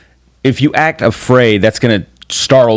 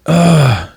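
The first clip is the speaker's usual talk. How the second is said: higher-pitched mock groan of disgust; exasperated groan; 6 semitones higher than usual. Husband imitating his wife losing patience, exasperated. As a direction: imitate a fed-up sigh.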